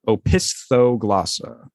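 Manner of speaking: Opisthoglossa said slowly as oh-pis-tho-GLOSS-a; careful pronunciation. Shown as a demonstration. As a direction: sound out Opisthoglossa slowly, rising at the end. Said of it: "it's pronounced".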